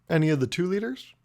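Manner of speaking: mildly surprised clarifying question; feigned surprise. Retold or imitated. Customer asking pizza guy an unnecessary question, feigned surprise. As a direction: ask as if it's news to you. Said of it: "said it in a way that made it seem like".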